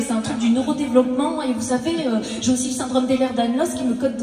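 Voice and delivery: rattled-off list. Pretend. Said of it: "je vais pas dire".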